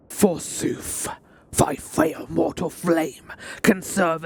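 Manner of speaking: lightly voiced fire god, slow in places; a hint of a menacing primal god; Ifrit voice. Streamer voicing Ifrit claiming the captives, a lightly menacing god voice. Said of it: "I gotta do an Ifrit voice now".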